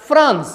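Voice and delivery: France with a clear F; France as a crisp model word; correct pronunciation. Shown as a demonstration. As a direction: say France starting on F, not P. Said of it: "you will pronounce".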